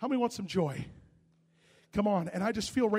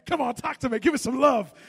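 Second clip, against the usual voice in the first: mock coaxing; 4 semitones higher, 16 dB louder than usual. Acted pleading to brother.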